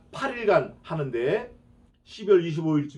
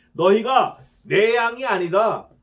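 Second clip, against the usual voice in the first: slow loud rebuke; 4 semitones higher, 6 dB louder, slower than usual. Acted. Quoting Jesus rebuking.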